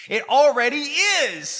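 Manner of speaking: sudden high shout. Real, not acted. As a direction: yell it out, outraged. Ranting at libertarians.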